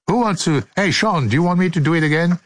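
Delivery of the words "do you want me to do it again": very quick teasing question; fast. Real, not acted. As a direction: rattle it off playfully. Repeated playful quick request.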